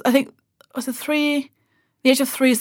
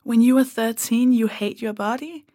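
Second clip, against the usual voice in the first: incredulous repeat. Retold or imitated. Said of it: "you say that as a fact?".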